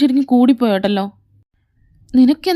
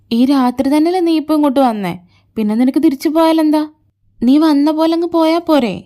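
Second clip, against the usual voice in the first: higher and louder, getting heated; exasperated scolding; 5 semitones higher, 3 dB louder than usual. Acted. Scolding him to go back the way he came, heated. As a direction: push back hard, exasperated.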